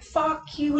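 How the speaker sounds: mock furious yell, pitched high; high-pitched imitation of an angry curse; retold angry outburst. Devin cursing at truck, retold.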